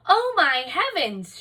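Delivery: mother alarmed, crying out at the stripes; cried out. A narrator's reading. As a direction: gasp it out in shock. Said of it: "she cried".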